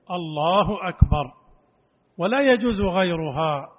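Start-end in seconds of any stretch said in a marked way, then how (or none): 0.1-1.3 الله أكبر said slow and firm; correct takbir. Shown as a demonstration. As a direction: give الله أكبر clearly, a little louder. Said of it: "بهذه التكبيرة". (الله أكبر بوضوح)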